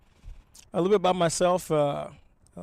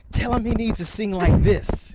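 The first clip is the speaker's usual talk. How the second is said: through a translator; 7 semitones higher, 6 dB louder, slower than usual. Retold or imitated. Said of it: "instead of being like".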